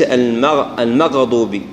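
"المغضوب" with an echo vowel after gh; qalqala on ghayn. Shown as a demonstration. Teacher warning how some recite it, gh bounced. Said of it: "قد تكون يقلقلوا".

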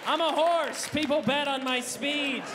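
loud, slow, proud declaration; boastful horse. Acted. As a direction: brag like a champion.

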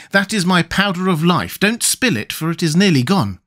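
put-on high, warning boy voice; mildly alarmed boy; urgent cry. A narrator's reading. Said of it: "cried the boy".

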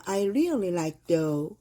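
very slow, each word drawn out; slow example. Shown as a demonstration. Teacher reading example sentence to class, very slow. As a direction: read the example line word by word. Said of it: "비록 뭐뭐일지라도".

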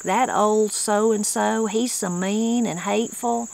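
put-on slow, mildly scornful "old so-and-so"; a touch of contempt for the mean man. Shown as a demonstration. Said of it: "we use it in a negative light".

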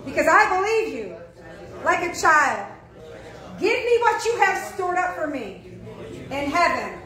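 fervent spoken prayer, rising in force. Acted. Pastor leading the church in prayer, fervent. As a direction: lead them in a heartfelt prayer.

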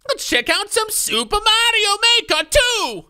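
a quick attempt at an Asian American accent. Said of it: "I try to do my best Asian American accent".

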